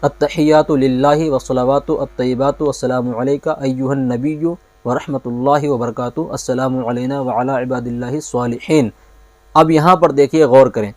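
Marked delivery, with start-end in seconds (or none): 0.0-8.9 slow recitation. Shown as a demonstration. Teacher showing students how to recite tashahhud. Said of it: "اس کا طریقہ میں آپ کو بتا دیتا ہوں".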